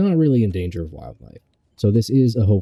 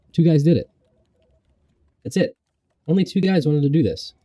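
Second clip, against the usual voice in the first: higher mock disbelief; incredulous; 8 semitones higher than usual. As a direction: sound amazed. Mock astonished aside.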